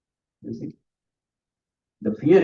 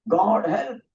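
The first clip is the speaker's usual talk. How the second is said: retold shout for help; 7 semitones higher than usual. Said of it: "He shout, shouted".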